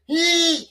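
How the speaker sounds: high drawn-out "hee"; mock squeal mid-story; mimicked squeal. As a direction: imitate a sudden high cry. Mimics the cry in demonstration.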